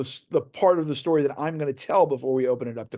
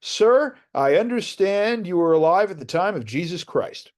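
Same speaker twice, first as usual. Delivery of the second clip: mock TV interviewer; 4 semitones higher than usual. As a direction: put the question like a fifties TV reporter. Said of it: "sticks a pretend microphone in his face".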